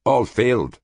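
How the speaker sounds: lightly voiced hopeful alien scholar; a hint of a yearning dreamer; Cultan, eager. A narrator's reading.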